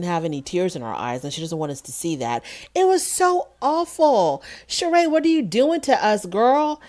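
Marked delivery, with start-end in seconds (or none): 2.7-6.8 exasperated disbelief. Real, not acted. Reacting to Sheree's fake cry, high exasperated whine. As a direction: squeal it in disbelief.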